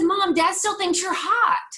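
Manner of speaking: high, loud laughing delivery. Retold or imitated. Telling mom about dad, laughing. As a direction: laugh the words out in delight. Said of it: "we laughed because I said".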